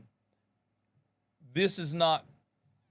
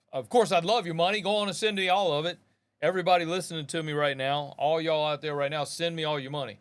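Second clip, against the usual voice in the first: mock greedy plea; 4 semitones higher, 3 dB louder than usual. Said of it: "No, that, I'm joking".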